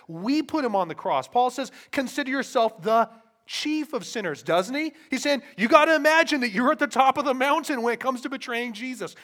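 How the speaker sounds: impassioned preaching. Real, not acted. Preacher telling congregation they are chief of sinners, impassioned. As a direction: drive the charge home forcefully.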